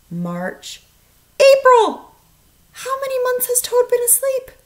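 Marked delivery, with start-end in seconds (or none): 1.4-4.5 loud, high cheer on the last month; excited. Real, not acted. Teacher finishing the count with the class, loud and high. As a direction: land it like a big reveal.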